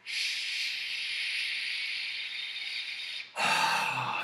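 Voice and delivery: long unvoiced hissing exhale; long sh breath. Shown as a demonstration. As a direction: hold out a steady shh breath. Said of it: "It's just an S H".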